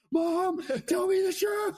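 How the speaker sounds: hammed-up, very high demand to mother; high-pitched plea. Grown child confronting mom about tea, high mock plea. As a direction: plead in a high, incredulous voice. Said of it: "I was like".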